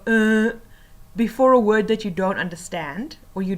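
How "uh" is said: demonstrated filler "uh"; mock hesitation noise; hesitant "uh". Shown as a demonstration. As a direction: stall with a drawn-out "uh". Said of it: "So don't pause and go".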